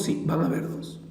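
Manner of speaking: soft breathy whisper. Real, not acted. Teacher whispers the answer back to the puzzled student. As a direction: whisper it as a secret tip.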